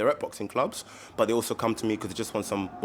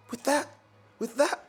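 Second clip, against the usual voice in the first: incredulous dad; 14 semitones higher than usual. Retold or imitated. Dad questions son's gun.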